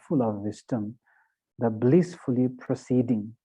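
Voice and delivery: measured prayer reading, phrase by phrase; sutra recitation. Acted. Teacher leading students in reflecting on the three jewels sutra, measured recitation. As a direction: recite devotionally with deliberate pauses between phrases. Reads the sutra aloud slowly.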